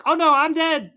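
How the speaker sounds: over-the-top mock death cry; hammed-up panicked cry. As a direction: yelp it like a cartoon doom moment. Elsa voiced in a dramatic moment.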